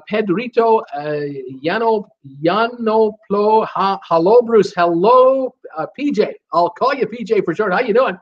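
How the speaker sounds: high, bouncy welcome to a newcomer; sing-song hello to a new face in chat; excited greeting. Real, not acted. Lively greeting of new viewer.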